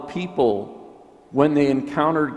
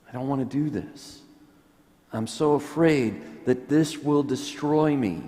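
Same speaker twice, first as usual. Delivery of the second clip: fearful resistance; 3 semitones higher than usual. Retold or imitated. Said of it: "that demon voice".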